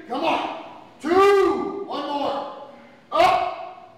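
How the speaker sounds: counting workout reps. Real, not acted. Coach counting partner's reps.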